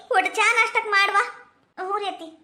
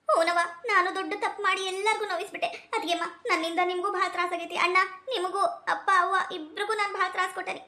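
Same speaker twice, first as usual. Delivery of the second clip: much softer, hushed and contrite; remorseful apology; 6 dB quieter than usual. Acted. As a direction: barely voice the apology, ashamed. Tearful daughter apologizing to family.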